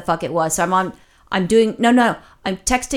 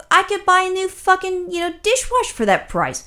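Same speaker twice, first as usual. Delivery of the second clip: shocked disbelief; 10 semitones higher than usual. Retold or imitated. Reacting to the repair quote from the chat agent, shocked. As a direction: sound floored by the price. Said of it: "I was, like, shocked".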